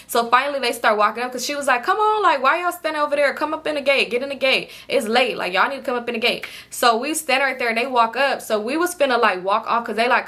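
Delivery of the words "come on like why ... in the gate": bossy lady. Retold or imitated. Lady at the gate ordering the girls inside, mildly bossy.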